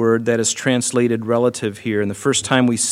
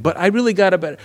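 higher, eager protest cut short; pleading objection; 7 semitones higher, much faster than usual. Retold or imitated. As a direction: blurt the objection up high. Soldier pleading in retold quarrel.

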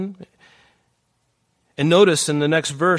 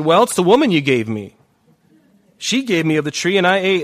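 defensive Adam; 5 semitones higher, 6 dB louder than usual. Acted. Adam blames the woman, acted.

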